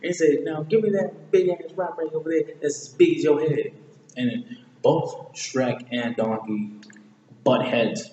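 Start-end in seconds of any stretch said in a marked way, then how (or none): 0.4-3.7 lightly voiced character, a bit higher; acted movie quote. Retelling a film quarrel to viewers, acted quote. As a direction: act out the film line, pitched up a little.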